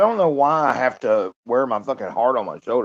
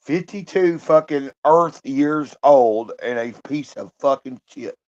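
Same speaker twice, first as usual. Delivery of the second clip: bitter self-disgust; 4 semitones higher, 5 dB louder, slower than usual. Real, not acted. Self-loathing outburst.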